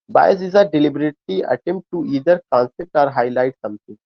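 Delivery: reading a textbook line slowly, word by word; slow dictation reading. Acted. Teacher reading a definition aloud to his students, slow and deliberate. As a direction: dictate it so students can follow. Reads English definition to class.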